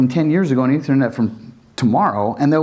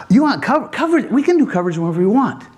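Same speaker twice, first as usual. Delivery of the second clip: mock incredulous; 7 semitones higher, faster than usual. Mocking the coverage obsession.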